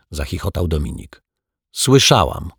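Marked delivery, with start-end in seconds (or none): 1.7-2.5 shouted retort. Acted. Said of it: "krzyknęła Asia".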